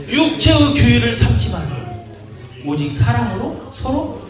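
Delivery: preacher reads the verse slowly; scripture reading. Acted. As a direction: read the verse with weight.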